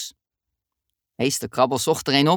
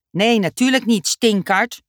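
sneering; 5 semitones higher, 4 dB louder than usual. Acted. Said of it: "sneerde Annelies".

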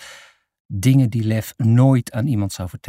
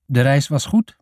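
put-on lightly accented foreign woman; halting Dutch with a foreign accent; foreign woman's accent; 3 semitones higher than usual. A narrator's reading. Woman translates her welcome for children, foreign accent. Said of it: "Ik praat niet jouw taal".

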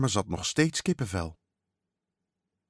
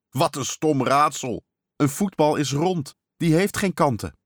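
scornful protest; 5 semitones higher, 3 dB louder than usual. Acted. Boy scoffs at dad's silly riddle.

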